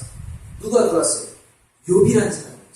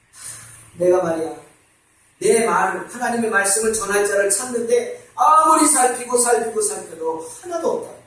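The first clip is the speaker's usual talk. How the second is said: lamenting God. Acted. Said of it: "탄식하십니다".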